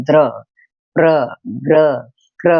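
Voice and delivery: द्र, प्र, ग्र, क्र one by one, short consonant into full र; sounded-out clusters. Shown as a demonstration. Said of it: "र को बड़ा बोल रहे हैं". (द्र, प्र, ग्र, क्र को रुक-रुककर, पूरे र के साथ)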